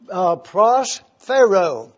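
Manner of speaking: prosphero drawn out, every syllable spelled in sound; Greek word said slowly. Shown as a demonstration. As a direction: teach prosphero slowly to the room. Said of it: "P R O S P H E R O".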